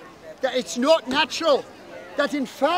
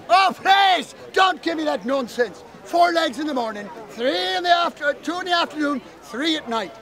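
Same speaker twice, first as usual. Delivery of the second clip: scornful fairy. Acted.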